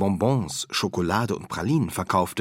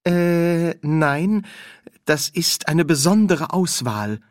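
nervous shopkeeper; 8 semitones higher, 4 dB louder, slower than usual. Acted.

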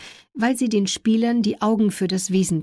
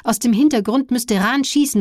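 rising commentator excitement; 4 semitones higher, 4 dB louder than usual. Real, not acted. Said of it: "die sich überschlagende Stimme".

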